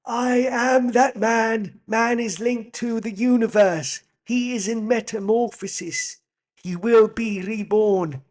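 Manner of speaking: high, loud, slow mock German accent; hammed-up German-accented impression, drawn out; Werner Herzog. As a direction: intone it grandly in a bad German accent. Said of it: "I'll try and do Werner Herzog".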